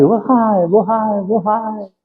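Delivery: mock canyon echo; echo from far away. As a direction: echo off the mountain, dying away. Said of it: "E lá de longe vai assim".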